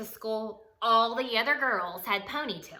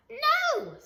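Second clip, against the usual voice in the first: emphatic no; 3 dB louder than usual. Acted. Stephanie refuses again.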